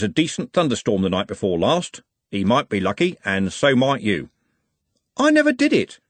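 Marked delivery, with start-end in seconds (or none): 5.2-6.0 NEVER hit high and hard; "never" pitched far above the rest, falling; high protest. Acted. Accused youth denies murder.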